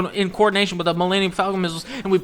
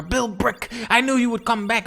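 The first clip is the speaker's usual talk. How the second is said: higher, lifted greeting; acted relieved joy; 5 semitones higher than usual. Hero greeting Bill Brick's sudden return, acted joy. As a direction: hail your rescuer, lightly hammed-up.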